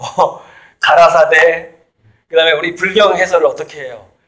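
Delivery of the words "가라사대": very slow, loud, solemn, recited 가라사대. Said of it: "이렇게 말씀하시는 걸 들었노라 ... 이런 식으로 해석하잖아요".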